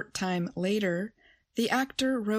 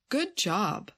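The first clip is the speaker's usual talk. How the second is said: "Good job" with job carrying the weight; stress on job. Shown as a demonstration. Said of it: "then the stress goes on job".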